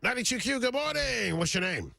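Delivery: bright, high radio-DJ greeting; radio host voice. Acted. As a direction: greet the caller like a morning DJ.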